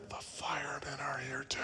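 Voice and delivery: put-on soft whispered child voice; child's whisper. Boy tells the telemarketer his age in a whisper. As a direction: whisper like a hiding little boy. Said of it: "Still whispering".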